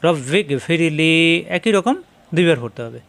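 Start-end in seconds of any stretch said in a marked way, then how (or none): 0.0-1.1 slow, careful, each syllable held; unhurried teacher's demo; slow recitation demo. Shown as a demonstration. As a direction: recite it slowly for the class to repeat. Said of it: "আরেকবার পড়বেন".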